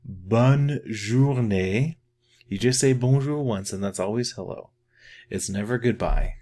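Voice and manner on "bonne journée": "Bonne journée" slowly with a rising end; teacher repeating the phrase slowly for students; slow demo. Shown as a demonstration. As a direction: draw out "Bonne journée" gently upward.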